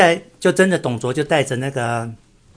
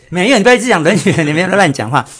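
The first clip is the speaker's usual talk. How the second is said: mock scolding; 5 semitones higher, 10 dB louder, faster than usual. Real, not acted. Co-host scolds partner's silly joke.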